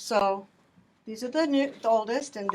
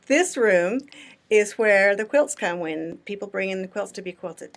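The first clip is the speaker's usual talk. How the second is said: speaking up; 2 semitones lower, 6 dB louder than usual. Real, not acted. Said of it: "I'm gonna talk really loud".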